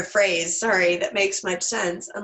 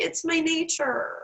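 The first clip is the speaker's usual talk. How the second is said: scorpion voice; 8 semitones higher, slower than usual. Retold or imitated. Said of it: "he's like".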